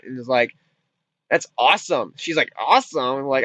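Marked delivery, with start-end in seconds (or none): 1.3-2.1 a low, matter-of-fact 'awesome'; retold deadpan approval; understated approval. Retelling the film dad's reaction, understated approval. 2.6-3.2 'awesome' thrown back as a question; retold doubtful echo, swooping up. Retelling the girl's reply to dad, questioning echo. Retold exchange, echoed in disbelief.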